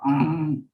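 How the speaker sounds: short low angry grunt; angry growl. A narrator's reading. Storyteller voices the lion losing his temper, angry growl. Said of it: "He lost his temper".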